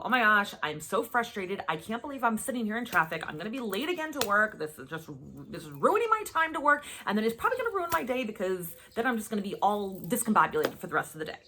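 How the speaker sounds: exasperated complaint, stuck in traffic; hammed-up frustrated driver griping about being late; frustrated rant. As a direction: vent your mild frustration in a rush. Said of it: "that was my unintentional response".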